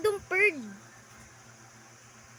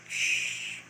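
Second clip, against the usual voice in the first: a soft unvoiced shush; hushing; 9 dB quieter than usual. Real, not acted. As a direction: hush someone quietly. Hushing during sneaky play.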